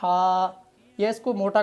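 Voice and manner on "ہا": ہا with the mouth opened too wide; ہا with a gaping mouth error. Shown as a demonstration. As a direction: show the wrong, overopened ہا. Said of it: "ایسے کر دیتے ہیں".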